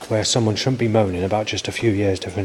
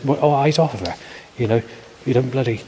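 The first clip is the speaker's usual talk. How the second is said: higher-pitched mock telling-off; sarcastic imitation; 5 semitones higher than usual. Woman retorting to a man in church, mock sarcastic. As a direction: imitate her sarcastic scolding, voice lifted. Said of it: "sarcastic, sort of calm accent".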